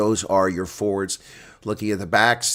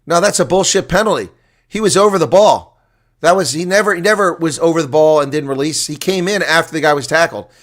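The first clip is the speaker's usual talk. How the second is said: a touch louder, arguing the call; indignant protest; 6 semitones higher, 7 dB louder than usual. Real, not acted. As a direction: protest the ref's decision with rising heat. Disputing the referee's penalty call.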